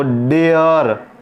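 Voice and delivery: डेयर drawn out as "day-uhr"; slow teaching model of डेयर; two-part vowel. Shown as a demonstration. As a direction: let "ay" glide into "uh" in डेयर. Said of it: "ए की मात्रा और अ आ रहा है".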